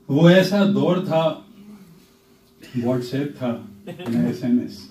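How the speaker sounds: playful measured poetic recital; humorous nazm recitation. Acted. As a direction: recite with a wry smile. Recites tazmeen.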